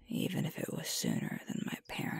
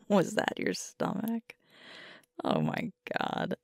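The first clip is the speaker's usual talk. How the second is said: louder, amused and incredulous; laughing amazement; 4 dB louder than usual. Acted. Speaker catching a partner's stomach growl, laughing amazement. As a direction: ask it through giggles.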